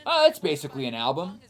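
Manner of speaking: high, loud and giddy; giddy overconfidence about a half-done album; delusionally excited. Retold or imitated. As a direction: younger self, high and loud with glee. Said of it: "I'd be like".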